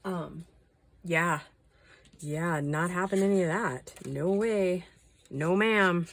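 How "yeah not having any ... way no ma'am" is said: firm no. Real, not acted. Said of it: "firm refusal".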